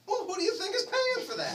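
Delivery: high, loud, laughing challenge; laughing retort. Retold or imitated. Turning the question on the crew, loud laughing retort. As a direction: hit the punchline laughing.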